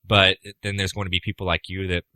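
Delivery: ordinary talk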